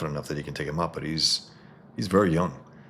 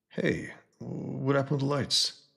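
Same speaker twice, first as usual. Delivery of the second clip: much higher, put-on panicky thug; scared thug voice; 10 semitones higher than usual. A goon panicking as the lights go out, high put-on voice. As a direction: squeal it like a spooked goon.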